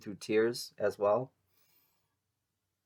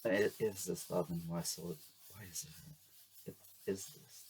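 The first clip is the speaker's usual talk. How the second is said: very soft, fading to a whisper; murmuring to self; 3 semitones lower, 11 dB quieter than usual. Real, not acted. Reader repeating the message to herself, murmuring. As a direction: mutter it under your breath.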